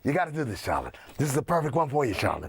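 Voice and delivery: smooth pep talk, dropping low on each Charlotte; Hollywood hype man. Acted. Hollywood agent hyping up Charlotte, low and smooth on her name. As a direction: coax her like a slick agent. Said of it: "the Hollywood guy".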